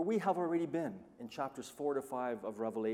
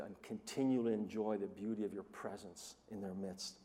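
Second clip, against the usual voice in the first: quiet prayer; 3 semitones lower, 5 dB quieter than usual. Real, not acted. Preacher praying.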